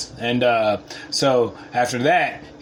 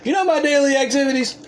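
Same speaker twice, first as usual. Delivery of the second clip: not very humble; 13 semitones higher than usual. Real, not acted. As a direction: brag about yourself like a celebrity. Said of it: "That was not very humble".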